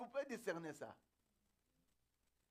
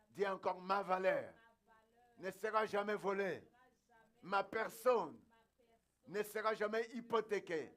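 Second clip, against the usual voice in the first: emphatic declaration; 4 dB louder than usual. Real, not acted. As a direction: proclaim it phrase by phrase for the congregation to repeat. Preacher's repeated declarations for congregation. (déclaration proclamée avec force)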